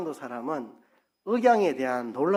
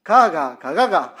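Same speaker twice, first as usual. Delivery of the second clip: louder Gyeongsang intonation "가가, 가가"; 3 semitones higher, 9 dB louder, slower than usual. Shown as a demonstration. Preacher demonstrating dialect, a loud Gyeongsang "가가". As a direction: sing the "가가" tones the Gyeongsang way. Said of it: "제가 해볼게요".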